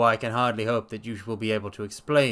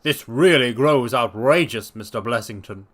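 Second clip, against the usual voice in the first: a hint of scolding his patient; doctor calling up the stairs, fed up; exasperated doctor; 7 dB louder than usual. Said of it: "cried Doctor Trevelyan".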